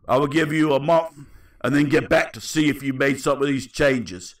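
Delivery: lightly voiced Cockney; measured mock-Cockney delivery; Cockney accent. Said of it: "How about I go Cockney".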